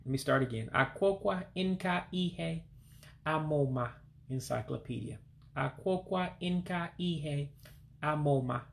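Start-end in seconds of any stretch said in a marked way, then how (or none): 0.7-3.9 over enunciating. Shown as a demonstration. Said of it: "One more time". 5.6-8.6 over enunciating. Shown as a demonstration. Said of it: "One more time".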